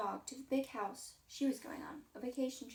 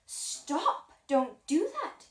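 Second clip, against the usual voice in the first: sharp loud stop; loud protest; 3 semitones higher, 9 dB louder, much slower than usual. Acted. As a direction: shout it to stop the hug. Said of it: "said the dog".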